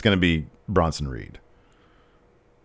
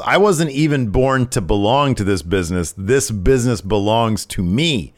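boastful wrestling promo, retold; lightly acted arrogant heel; Santos; 3 semitones higher than usual. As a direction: proclaim it with mock grandeur, slowing at the end. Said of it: "he says".

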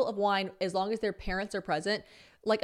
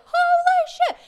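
high shrieking squeal, much louder; screamed holy shit; 11 dB louder, slower than usual. Retold or imitated. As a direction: friends shriek at the big win, loud squeal. Group reacting to big win.

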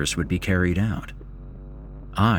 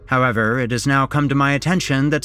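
higher-pitched official proclamation; mayor's public address; 7 semitones higher than usual. A narrator's reading. Mayor orders the corpse removed before the crowd, formal address. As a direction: deliver a mayor's speech to a crowd. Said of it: "the mayor said".

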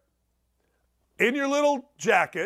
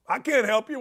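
usual speaking voice

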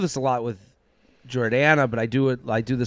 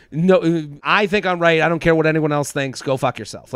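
mock-assertive, a bit louder at the start; strong-handed; 4 semitones higher, 4 dB louder than usual. Podcaster acting out strong-handed self-certainty, mock-assertive. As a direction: put on a stubborn, dismissive certainty. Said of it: "that strong-handed".

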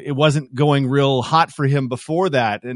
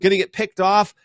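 frustrated fan yell; 7 semitones higher than usual. Retold or imitated. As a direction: yell at the quarterback to throw. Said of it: "you go".

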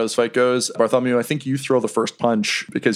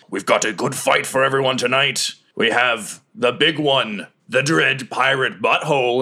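arena announcer. Acted. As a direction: announce the fighters to the crowd, stretching the big names. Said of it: "he calls for silence".

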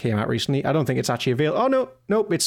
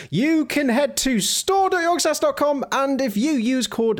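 high-pitched announcer; 12 semitones higher than usual. Acted. Ad read, preacher to worshippers.

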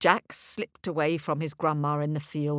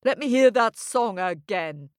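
demanding giant; 3 semitones higher, 5 dB louder than usual. Acted. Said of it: "he demanded".

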